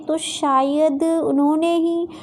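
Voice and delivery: slow, trailing accusation; tentative, leaving it hanging; hesitant insinuation. Acted. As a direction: plant suspicion with drawn-out hesitation. Insinuates blame on sister-in-law.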